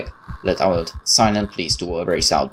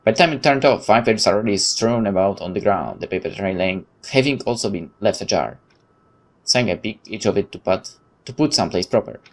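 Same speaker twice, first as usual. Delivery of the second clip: reading the story text aloud, steady narrator voice; story narration. Acted. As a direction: narrate the horror scene evenly. Reads the game's story text.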